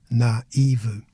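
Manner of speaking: "Naive" as na-EE-vu, stress on the i; Portuguese hiatus. Shown as a demonstration. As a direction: split the a and i in "Naive". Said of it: "call attention to the syllable separation".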